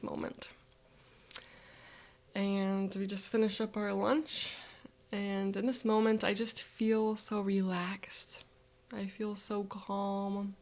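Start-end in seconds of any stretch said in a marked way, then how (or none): 5.1-10.6 calm. Real, not acted. Calm closing of visualization.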